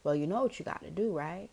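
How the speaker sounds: soft, motherly nudge; imitated gentle mom. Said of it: "says to me very gently".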